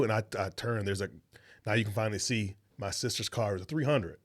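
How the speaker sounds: normal talking voice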